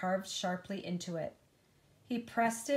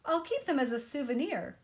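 happily; 6 semitones higher, faster than usual. Acted. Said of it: "Yunhai said happily".

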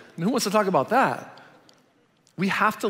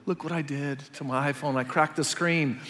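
fake defeated; 3 semitones lower, 6 dB quieter than usual. Husband showing wife his cracked phone, faking defeat. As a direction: lower and softer, mock-defeated sigh. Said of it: "I acted all, like, defeated".

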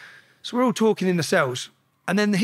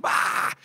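short mock scream; retold scream; 3 dB quieter than usual. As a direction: re-enact a scream, held back. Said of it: "I remember just screaming".

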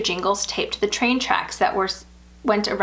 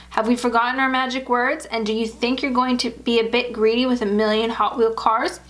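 gentle scolding; 3 semitones higher than usual. Acted. Mother gently scolding daughter.

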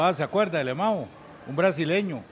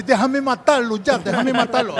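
louder, higher acted struggle; mock enraged plea; 5 semitones higher, 6 dB louder than usual. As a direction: imitate a fighter begging for release. Acted plea during fight. (súplica furiosa imitada, alta)

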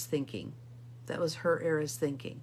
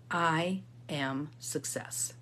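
slow, lower and measured, each word given room; slow affirmation; 4 semitones lower, 4 dB quieter, much slower than usual. Shown as a demonstration. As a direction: say the affirmation slowly and deliberately. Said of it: "I want you to say out loud".

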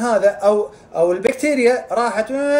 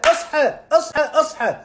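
wake up call; 5 semitones higher than usual. Real, not acted. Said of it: "urging viewer to wake up".

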